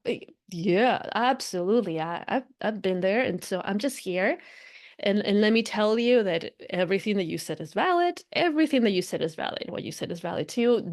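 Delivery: gently validate and reassure; accepting spiritual self. Acted. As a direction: play an accepting inner guide. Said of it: "spiritual self".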